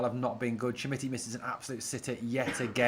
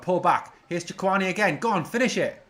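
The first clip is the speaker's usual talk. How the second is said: higher and louder, urging the striker to finish; real excitement rising as the chance comes; excited shouting; 7 semitones higher, 6 dB louder than usual. Real, not acted. Fan cheering a Rangers attack on, excited shouting.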